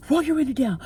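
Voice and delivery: retold yell through the car window; father yelling. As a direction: bark the order like the furious driver. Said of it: "start yelling at me".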